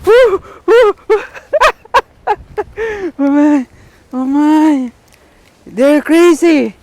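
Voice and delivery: real delight at another bite; excited cheering. Real, not acted. More fish, cheering again.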